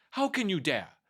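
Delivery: an angry witch catching a thief. Acted. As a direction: confront the thief. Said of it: "she said with angry look".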